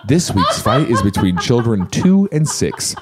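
lightly voiced, gentle fight-show host; hint of a sweet TV narrator, slowing down; innocent TLC announcer. Introducing the children's fight for TLC, lightly innocent announcer. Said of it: "So innocent the fight is".

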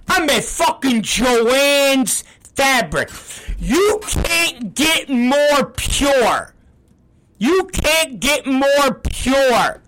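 slow, high, exasperated insistence; exasperated emphasis. Real, not acted. Host insisting the fabric store is wholesome, exasperated and drawn out. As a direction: stretch each word out to hammer the point. Exasperated rant, drawing words out.

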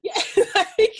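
laughing through the words. Real, not acted. Cohost cracking up at the joke about a rapper, real laughter. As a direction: burst out laughing mid-reply.

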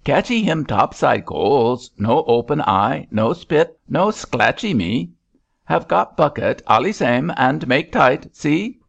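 proud of his catch, lightly voiced sailor; Chinese sailor voice. A narrator's reading. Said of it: "said the Chinese sailor".

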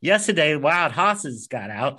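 New Orleans teacher, horses said as "hosses"; New Orleans accent. Retold or imitated. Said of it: "this really funky accent".

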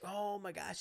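put-on high girl voice; mock a girl in a small fluster; imitated flustered girl. Boyfriend imitating his girl unable to order, high fluster.

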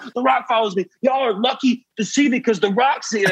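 high-pitched, frantic retold calling out; excited calling out. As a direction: call it out like you're losing your mind. Shouting from back of club.

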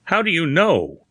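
a touch of awe, pitched high; hushed amazement, lightly voiced; awestruck. A narrator's reading. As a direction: ask it half in wonder, half in dread. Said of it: "in awestruck tones".

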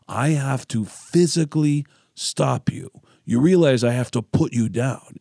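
angry singer. Retold or imitated. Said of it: "a very angry singer".

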